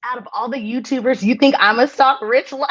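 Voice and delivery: high incredulous laughing squeal. Retold or imitated. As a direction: squeal it through laughter in disbelief. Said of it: "Earth was like".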